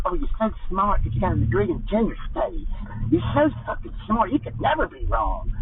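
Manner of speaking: sarcastic praise, pitch jumping up on the second "smart"; sarcastic mimicry of coddling praise; mocking flattery. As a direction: sneer it like a fawning professor. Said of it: "Make 'em feel like".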